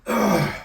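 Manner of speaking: loud gasp after a swig; real, loud "ugh" after gulping; energy drink gulp. Real, not acted. Vlogger apologising for an energy drink gulp, loud gulping gasp. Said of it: "had to have a energy drink gulp".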